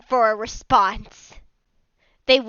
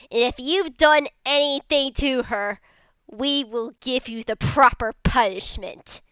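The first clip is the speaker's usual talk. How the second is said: stern threat. Acted. Angry figures demanding answers about Carmenia, stern threat. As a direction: lay down the demand deliberately. Acted threat to the frightened man.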